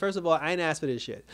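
mock-indignant retort; retold upset. Recapper quoting the heroine in an argument, mildly upset. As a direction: answer back with a touch of indignation. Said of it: "that's when Ava got upset".

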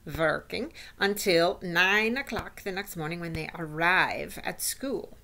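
lightly voiced witch explaining her recipe; instructing witch. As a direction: lightly play a witch lecturing her followers. Voices the Grand High Witch.

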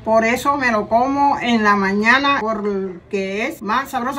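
halting read-aloud ad line, slowing down. Shown as a demonstration. Mother reading egg ad for camera, read aloud. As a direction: read it out carefully, word by word. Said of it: "hablar en voz alta".

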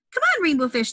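high playful call. Acted. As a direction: call him over to play. Fish calling out in story.

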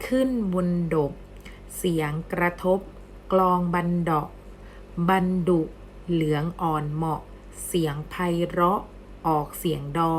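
measured poem recitation, pausing after each short phrase; verse read aloud. Shown as a demonstration. Teacher reading a rhyme aloud to students, measured verse recitation. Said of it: "เรามาอ่านออกเสียงบทร้อยกลองกันบ้าง".

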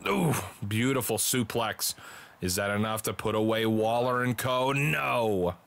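building call of a near fall; wrestling commentator calling a pin attempt; play-by-play. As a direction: build the question, then exclaim the answer.

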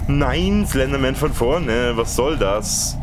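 high, slow horrified cry; startled panic. Real, not acted. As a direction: shriek at the sudden monster. Slenderman suddenly in front. (erschrockener Schrei)

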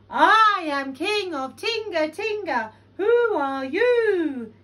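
booming loud, high echo; even bigger voice. A narrator's reading. Cave echoing Lion even bigger, booming shout. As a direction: boom it back, drawing out the end. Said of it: "an even bigger voice".

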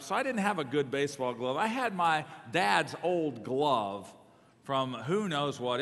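usual speaking voice

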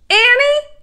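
high, loud name with rising end; alarmed call. A narrator's reading. Jack calling after hearing Annie shriek, alarmed loud call. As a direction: call out in search of someone.

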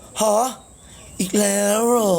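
imitating shocked disbelief; high, startled mimicry. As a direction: gasp it out as a startled question. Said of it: "พี่หนุ่มยังตกใจเลย เห็นป่ะ พี่หนุ่มตกใจอ่ะ".

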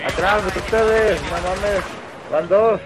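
loud warning to teammates; urgent callout. Real, not acted.

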